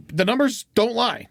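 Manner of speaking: light sportscaster call; baseball announcer. Pretend. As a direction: say it like a stat on air. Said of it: "you sound like a baseball announcer".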